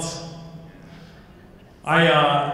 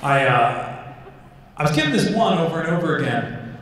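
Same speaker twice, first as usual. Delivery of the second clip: ordinary talk, nothing marked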